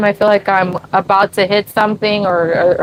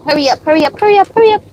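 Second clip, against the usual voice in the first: urging cheer; 5 semitones higher, much faster than usual. Real, not acted. Urging dog.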